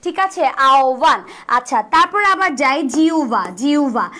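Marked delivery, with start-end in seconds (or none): 0.7-1.2 "আওয়ান" as ao-bhan, হ turned into o; correct pronunciation. Shown as a demonstration. Teacher shows how the word should sound, "আওয়ান" as ao-bhan. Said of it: "আহ্বানটা কেমন হবে". 2.9-4.1 "জিউভা" as jiu-bha, হ turned into u; correct pronunciation. Shown as a demonstration. Teacher introduces the next word, "জিউভা" pronounced jiu-bha. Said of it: "জিউভার উচ্চারণটা কেমন হবে".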